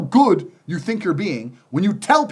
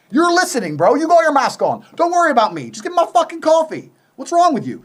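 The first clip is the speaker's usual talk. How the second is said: mock rant; 9 semitones higher, 4 dB louder than usual. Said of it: "retold rant at barista".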